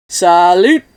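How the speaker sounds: loud toasting cheer; loud, stretched celebratory shout; called out. A narrator's reading. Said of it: "they called out".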